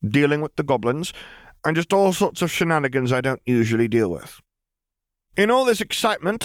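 a lifted, amused female voice; Lily's voice. A narrator's reading. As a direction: correct the charge with dry poise.

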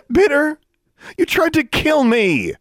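disbelieving furious cry; furious outburst. A narrator's reading. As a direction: hurl it at him. Furious girl accuses the ghost.

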